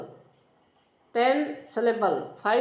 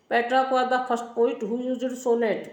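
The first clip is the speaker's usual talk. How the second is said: slow dictation; much slower than usual. Shown as a demonstration. Teacher dictating notes to class.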